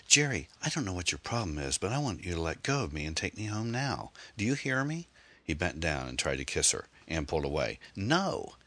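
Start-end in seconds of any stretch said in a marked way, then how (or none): 0.1-5.1 higher-pitched, frightened indignation, not shouted; angry and terrified. A narrator's reading. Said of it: "almost as angry as she was terrified". 7.9-8.6 high, drawn protest at normal volume; alarmed refusal. A narrator's reading. Woman pulling away from forced kiss.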